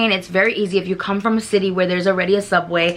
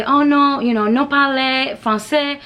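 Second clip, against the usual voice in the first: a slow, high, apologetic no; mock flustered tourist; 5 semitones higher than usual. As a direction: play the tourist who can't speak French, slowly. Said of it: "you can always just say".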